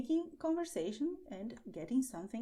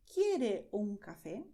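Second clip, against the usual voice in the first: slow model phrase; 5 dB louder than usual. Shown as a demonstration. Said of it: "You say the name of the thing".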